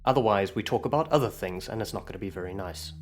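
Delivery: very calm. Acted. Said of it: "she's gonna say very calmly".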